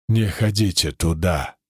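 low-pitched, distinct warning; wounded man speaking clearly. A narrator's reading. Wounded man warns his rescuers, unexpectedly clear. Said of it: "неожиданно внятно сказал раненый".

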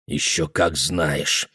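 slow, strained and quiet; choked. Acted. Guthrie contradicting the boy, slow and choked. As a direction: squeeze the words out, barely controlled. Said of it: "какой сдавленный у него голос".

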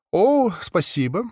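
slow, warm, smiling thanks; warm smile. Acted. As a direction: thank him warmly with a smile. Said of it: "тепло улыбнулась она".

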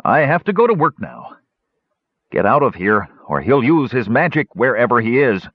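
high, nervous dwarf voice; a frightened simple-minded dwarf pleading; scared simple dwarf. Acted. Frightened Garth protests to Flint, high nervous dwarf voice.

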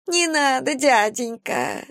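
high, slow whine of a begging vagrant; whining. Acted. Vagrant begs the captain again, high whining. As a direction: whimper the plea like a child. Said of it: "вновь захныкала та".

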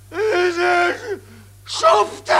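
high, shouted curse; furious insult. Acted. General shouts an insult at the scoundrels. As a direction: spit the word out.

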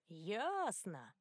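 a lightly mocking, falling "Ясно". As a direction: drawl "Ясно" with a sneer. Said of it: "проговорил тот насмешливо". (насмешливо)

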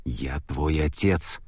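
slow, low, insistent father; insisting. A narrator's reading. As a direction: press the point slowly and low. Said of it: "настаивал Гермес". (Гермес настаивает: медленно, низко)

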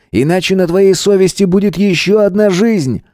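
high-pitched, pressing warning; threatening. Acted. Gunman threatens student with another death.

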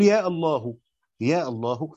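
يا الله ending in a short "hu"; final damma. Shown as a demonstration. Teacher shows the vocative's damma, final "u" sounded on الله. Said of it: "فهذه الضمة بتبقى على الاسم المنادى".

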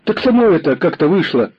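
put-on high boy's voice, ingratiating, with a smile; fawning boy. A narrator's reading. Boy fawning on the commissar over the killing. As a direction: wheedle and smile it away. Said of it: "заискивающе улыбнулся мальчик".

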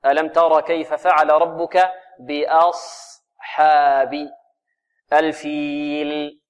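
slow, measured tajweed recitation; careful teaching recitation; Quran recitation. Shown as a demonstration. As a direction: draw out the long vowels evenly as a model for students. Teacher recites the verse as model.

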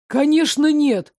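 high, loud outraged cry; furious. Acted. Drugged adjutant defending the empress, outraged high cry. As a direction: scream it in blind rage. Boy denies loudly.

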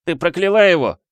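high, loud accusing cry; rough accusation. A narrator's reading. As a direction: hurl the charge at her. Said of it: "грубо оборвал он". (грубое обвинение)

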